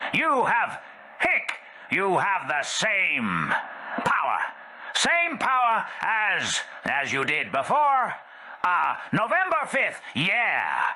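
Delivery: high slurred voice with hiccups, slowing; drunk woman rambling. Acted. Drunk Scamala insisting Joe has the same power. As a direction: stumble through the thought, tipsy.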